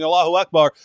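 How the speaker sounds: mock scream. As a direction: call it out loudly, imitating a screamer. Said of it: "starts screaming".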